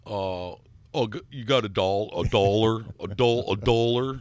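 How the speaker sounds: Michigan dollar with a broad open o; Michigan accent. Retold or imitated. Showing how Michigan folks say dollar, Michigan accent. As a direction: drawl dollar like someone from Michigan. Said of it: "anybody from Michigan can say".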